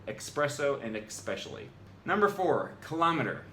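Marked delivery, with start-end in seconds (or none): 0.1-1.7 "espresso" and "especially" both starting ex-; both words with K. Real, not acted. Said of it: "that's how I say the word".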